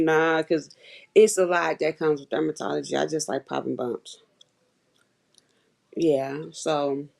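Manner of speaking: talking while chewing gum. Real, not acted. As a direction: chew gum through the words. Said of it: "sorry about my gum chewing song".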